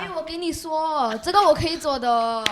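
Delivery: Singaporean Mandarin accent, showing off; local Singaporean accent. Shown as a demonstration. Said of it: "how about some local accent".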